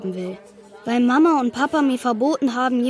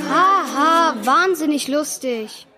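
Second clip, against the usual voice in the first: sarcastic; 3 semitones higher, slower than usual. Acted. Sarcastic reply to mockery.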